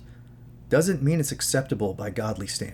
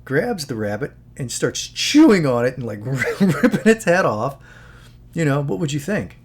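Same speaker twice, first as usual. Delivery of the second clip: louder, laughing through the question; laughing quote; 3 semitones higher, 7 dB louder than usual. Retold or imitated. Vegan speaker quoted, laughing loudly through the grim example. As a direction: giggle while posing the grim example. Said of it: "and he would say".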